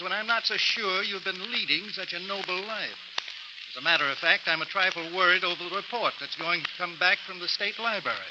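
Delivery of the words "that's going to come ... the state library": gloating laugh. Acted. Linda to her lawyer, gloating laughter. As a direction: laugh in his face.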